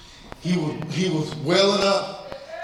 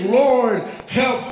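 crying out to God; 3 semitones higher, much slower than usual. Pretend. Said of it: "the only thing that I can really say right now is".

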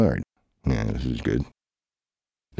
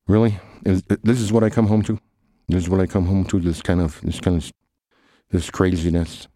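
exasperated; 4 semitones higher than usual. Acted. Arriving home to the broke friends, exasperated and higher. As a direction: play the put-upon one coming home.

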